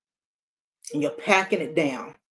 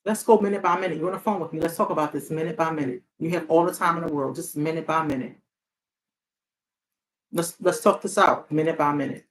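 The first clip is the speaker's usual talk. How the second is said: calm hotline reassurance; 3 semitones lower than usual. Shown as a demonstration. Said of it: "That's what I tell people when they call".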